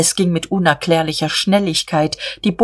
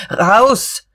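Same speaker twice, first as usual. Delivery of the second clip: sharp raised shout, higher pitch; ordering out; 4 semitones higher, 3 dB louder than usual. A narrator's reading. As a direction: drive them out with one shouted word. Boss chasing workers out. (herrisch gebrüllt)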